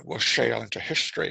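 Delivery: lightly imitated Scottish film-star voice; a hint of a Scottish movie captain impression; Sean Connery. Film critic quoting Hunt for the Red October, light Connery impression. Quotes Connery's film line, discussing his accent.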